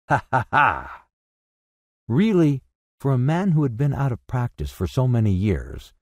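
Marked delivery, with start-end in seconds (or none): 0.1-1.1 hearty acted "ha, ha, ha"; splendid laugh. A narrator's reading. Scrooge out of practice at laughing, a splendid laugh. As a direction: laugh out in separate, jubilant bursts. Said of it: "it was a splendid laugh".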